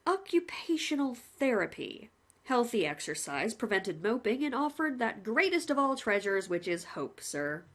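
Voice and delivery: lightly voiced cheerful jailer; a hint of a chummy warden; a plain-spoken warder reporting to the condemned man, lightly voiced; polite prison warden. Warden continues.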